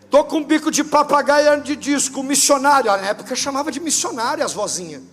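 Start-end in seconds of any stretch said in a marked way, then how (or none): 0.1-2.9 high, sweet little granny greeting; old lady voice. Retold or imitated. Old grandma phoning the pastor, high frail old-lady voice. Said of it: "era uma vozinha".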